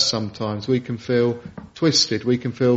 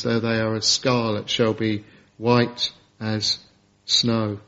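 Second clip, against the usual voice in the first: tender reading; 4 semitones lower than usual. Acted. Tender low scripture quote.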